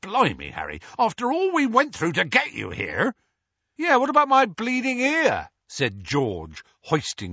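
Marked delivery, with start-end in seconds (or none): 0.0-3.1 gruff Hagrid voice. Acted. 3.8-5.5 higher, louder jokey complaint; cheeky young man. Acted. George voiced, far timbre.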